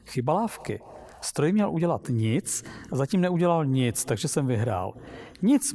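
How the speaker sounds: animated, expressive storybook reading; story narration. Acted. Narrator telling listeners of Trurl's wondrous machine, lively story reading. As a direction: read the tale aloud with lively dialogue. Reads a Lem story aloud.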